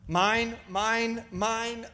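a light mock seagull squawk of "mine", fading; lightly voiced Nemo seagulls repeating "mine". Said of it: "like the seagulls on Nemo".

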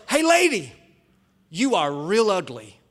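mocking bird voice, loud at first; parrot. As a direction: taunt like a cheeky talking parrot. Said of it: "the parrot goes".

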